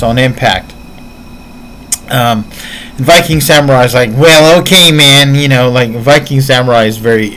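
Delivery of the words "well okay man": lightly put-on Californian, higher and louder; a touch of Californian dude; Californian guy. Imitating the Californian interviewer's reaction, lightly Californian. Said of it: "very Californian guy".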